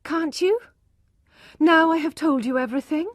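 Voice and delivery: wife begging her husband to understand; pleading wife. Acted. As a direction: plead in high, anxious disbelief.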